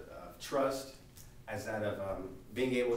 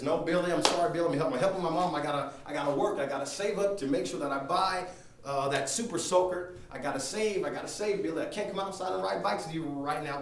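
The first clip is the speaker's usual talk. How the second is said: put-on raised, louder kid's protest; insistent refusal; 3 semitones higher, 4 dB louder than usual. Sam turning Billy down to save up, insistent. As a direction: earnestly turn a friend down, voice lifted.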